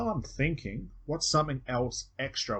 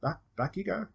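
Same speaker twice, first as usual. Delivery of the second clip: higher, coaxing "no, no" back into trance; gently herd them back, pitched higher; 9 semitones higher than usual. Shown as a demonstration. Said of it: "you're like".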